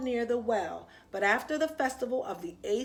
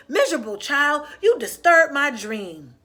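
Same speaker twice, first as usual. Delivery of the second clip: mildly grumpy; 3 semitones higher, 10 dB louder than usual. Acted. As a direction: grumble like a woken old man. Grumpy old man woken up.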